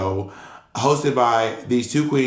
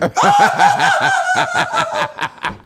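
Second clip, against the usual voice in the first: high imitation of a crowd cracking up; mock audience laughter; 4 dB louder than usual. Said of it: "everyone just starts laughing".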